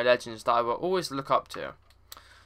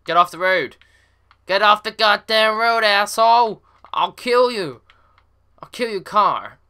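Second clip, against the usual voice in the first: loud high furious yelling; berserk rage; 7 semitones higher, 7 dB louder than usual. Real, not acted. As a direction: scream at the other driver. Raging at AI driver.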